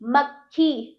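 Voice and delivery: मक्खी as mak-khee; correct half क. Shown as a demonstration. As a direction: stop lightly on क, then खी in मक्खी. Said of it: "हल्का सा उच्चारण क".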